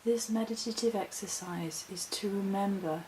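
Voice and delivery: soft, measured meditation voice with long pauses; calm, unhurried meditative delivery; guided meditation. Acted. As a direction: guide them gently, leaving space between phrases. I'm just gonna talk as spirit guides me.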